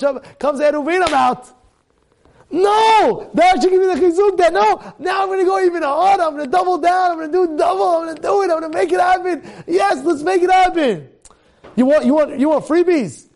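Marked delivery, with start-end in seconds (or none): 2.5-11.1 fired-up shout. Acted. Preacher rallying the crowd, fired-up shout. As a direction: shout it like you're rallying yourself. Rabbi fires himself up, shouting.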